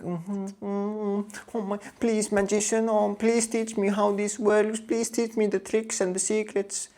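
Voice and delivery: put-on high, soft breathy pleading girl voice. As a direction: beg the magician, high and breathy. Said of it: "looking at me like".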